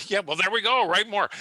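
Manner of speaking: laughing bursts out loud and high. Real, not acted. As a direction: laugh through the words, amused. Laughs at quip about writing more.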